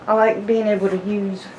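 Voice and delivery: slightly winded, breathy between phrases; out of breath. Real, not acted. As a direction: talk while catching your breath. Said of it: "I know I'm out of breath".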